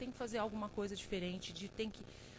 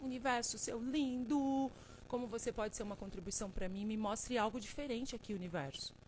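pedido carinhoso. Shown as a demonstration. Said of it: "é solicitado o universo".

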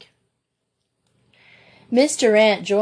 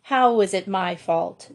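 indignant; 3 dB louder than usual. Acted. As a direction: bristle at the blame. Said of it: "demanded her sister indignantly".

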